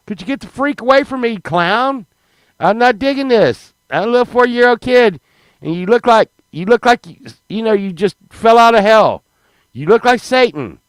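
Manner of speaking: high, indignant mock telling-off; worked-up kid. Four-year-old warding off a circus clown, high comic outrage.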